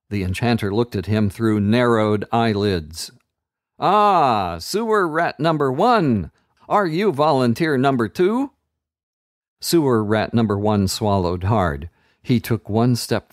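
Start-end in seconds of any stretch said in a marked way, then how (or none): 3.8-8.5 higher, gloating villain voice; sinister wizard. A narrator's reading. Enchanter offering the fallen child to the flames, sinister. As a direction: relish the cruelty.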